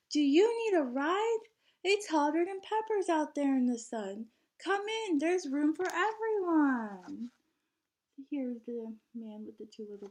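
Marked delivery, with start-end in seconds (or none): 0.1-7.3 loud, high call to passers-by; cheerful driver yelling from the window. Acted. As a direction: call out the invitation from the bus. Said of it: "and the driver yelled".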